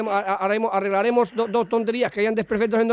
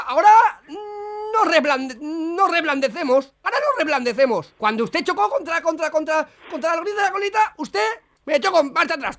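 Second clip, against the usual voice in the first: mock sobbing; 6 semitones higher than usual. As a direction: fake a tearful whine to tease her. Fake policeman mock cries back. (llanto fingido exagerado)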